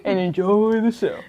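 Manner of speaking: giggling through the line; laughing. Real, not acted. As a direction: laugh while saying it.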